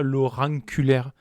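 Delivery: "auriculaire" bent into "orang-culaire"; altered pronunciation. Shown as a demonstration. Host making a vulgar pun, "auriculaire" said as "orang-culaire". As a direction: say "auriculaire" with a nasal "an" before "culaire". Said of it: "moi j'appelle ça l'auriculaire, pour être plus vulgaire".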